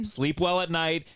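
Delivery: slow, drawn-out sarcastic quote; slow mocking echo. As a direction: repeat it slowly to mock the advice. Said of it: "This is toxic positivity".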